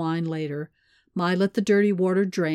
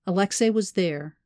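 ordinary delivery

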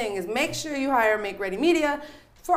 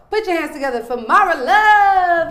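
announcer intro; 6 semitones higher, 10 dB louder than usual. Real, not acted. Introducing the guest.

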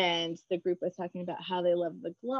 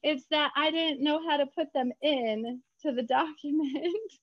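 high, emphatic denial; 7 semitones higher than usual. Retold or imitated. Author correcting her French friend about the accents, high and emphatic. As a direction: wave off the idea quickly. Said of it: "And I was like".

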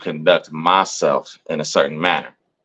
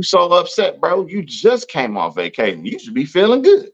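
mock incredulous; 9 semitones higher than usual. Mock reproach to Pete.

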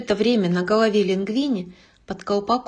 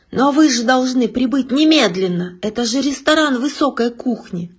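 raised, pleading protest; urgent protest; 4 semitones higher, 4 dB louder than usual. Acted. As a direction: insist it's an emergency.

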